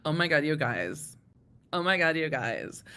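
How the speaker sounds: gushing gossip voice; gossipy court clerk. Retold or imitated. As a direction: gush like a starstruck gossip. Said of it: "Courthouse Becky is just like".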